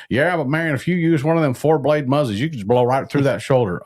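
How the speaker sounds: high, loud, sing-song mock older guy; imitating older hunters. Host mimics guys in their sixties defending their broadheads, high mocking voice. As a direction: mimic an insistent older hunter, pitched well up. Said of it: "a bunch of guys in their sixties go".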